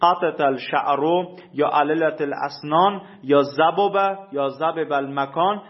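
slow, careful Arabic recitation of each example; قطعت الشعر read with precise Arabic letters. Shown as a demonstration. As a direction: sound every doubled letter apart, slowly. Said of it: "مانند".

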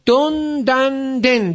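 "دون دن دن" slow and high as don, dan, den; stretched, separated "دون دن دن", vowel changing each time; case-ending drill. Shown as a demonstration. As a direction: model "دون دن دن" for a class to repeat. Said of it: "بگید".

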